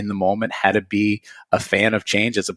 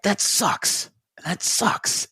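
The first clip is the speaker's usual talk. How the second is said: choked up; 10 semitones higher, 4 dB quieter, much slower than usual. Real, not acted. Grieving mother's loss, voice breaking.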